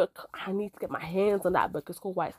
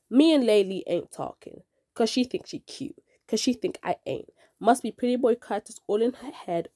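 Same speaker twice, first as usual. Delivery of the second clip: poem reading. Acted. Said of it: "we are gonna read the first poem".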